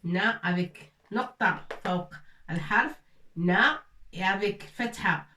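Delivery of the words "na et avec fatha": na said clearly with the open fatha vowel; pronouncing na. Shown as a demonstration. Teacher models a letter sound for students. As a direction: model the na syllable. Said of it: "on prononce na".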